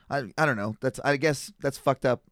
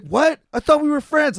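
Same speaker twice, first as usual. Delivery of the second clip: high, loud, wounded whine; a drunk whining that they were friends; mock hurt whine; 12 semitones higher, 6 dB louder than usual. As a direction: play the drunk stung by the refusal.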